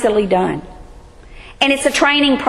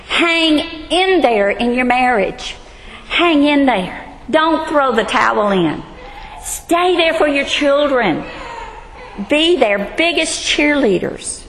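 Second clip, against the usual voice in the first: earnest exhortation; slower than usual. Retold or imitated. Urging young women to persevere.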